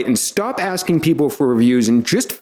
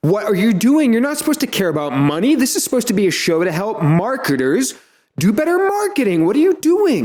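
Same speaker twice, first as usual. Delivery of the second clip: scolding; 6 semitones higher than usual. Acted. Scolding alter ego.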